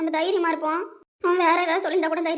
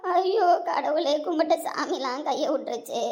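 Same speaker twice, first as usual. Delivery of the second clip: slow, drawn-out cry to god; sinking into despair; despairing wail; slower than usual. Acted. Wife breaks down after diagnosis. (மெதுவான வேதனை அழுகை)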